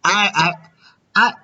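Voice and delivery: put-on a loose, wandering Mexican accent. Prank caller fooling a scammer in a put-on Mexican accent. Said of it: "My Mexican accent is all over the place".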